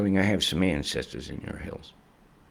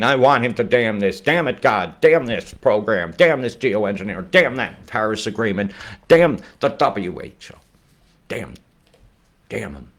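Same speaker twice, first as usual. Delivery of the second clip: ranting curses; 3 semitones higher, 4 dB louder than usual. Real, not acted.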